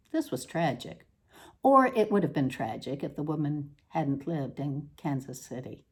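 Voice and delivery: measured, deliberate reading voice with dry pauses; literary reading. Acted. Author reading her odd prose to an audience, deadpan reading voice. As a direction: read the prose out with deadpan precision. Resumes reading after aside.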